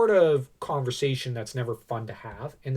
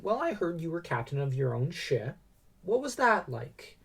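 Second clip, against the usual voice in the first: motherly tone; 3 semitones higher, 4 dB quieter than usual. Retold or imitated. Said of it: "In a very maternal, motherly tone".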